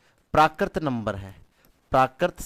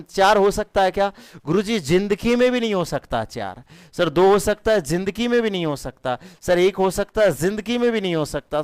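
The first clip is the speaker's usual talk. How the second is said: high, loud teacher ruling out each option; excited elimination; 5 semitones higher, 3 dB louder than usual. Acted. Teacher rejecting wrong answers to students, excited. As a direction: swing up on each option, then shut it down.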